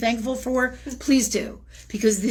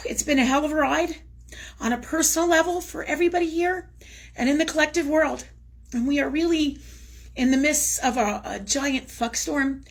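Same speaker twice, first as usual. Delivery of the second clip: emotional; 5 semitones higher than usual. Real, not acted. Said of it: "I'm gonna try not to get all crazy emotional".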